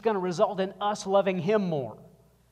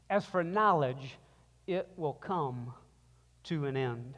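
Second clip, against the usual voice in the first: scripture reading. Acted. Pastor reading scripture aloud to the congregation, solemn and building.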